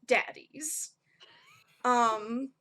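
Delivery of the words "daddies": sighed, exasperated DADDIES with rising end. Acted. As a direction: say "daddies" like "oh my God". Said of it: "a definite note of, like, "Oh my God".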